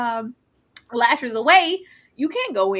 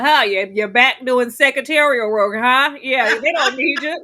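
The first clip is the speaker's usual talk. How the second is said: Millie; 6 dB louder, slower than usual. Retold or imitated. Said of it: "when Millie was like".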